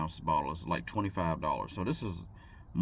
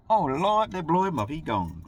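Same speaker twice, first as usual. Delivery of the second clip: high, loud wail of imagined onlookers; mock lament; 9 semitones higher, 6 dB louder than usual. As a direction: wail it like a hammed-up mourner.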